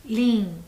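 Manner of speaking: Linguado split as LIN-GUA-DO; syllable by syllable. Shown as a demonstration. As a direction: count out Linguado with a pause after each syllable. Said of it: "Três sílabas". (Linguado separado em três sílabas, com pausas)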